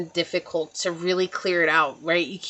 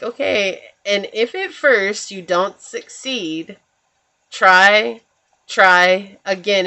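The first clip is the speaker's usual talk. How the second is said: mock-heroic rallying cry, slow and loud; emphatic shout; 5 dB louder, slower than usual. The albatross rallies the nervous mice with a loud slow cry. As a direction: belt out try again like a cartoon pilot. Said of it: "And he's like".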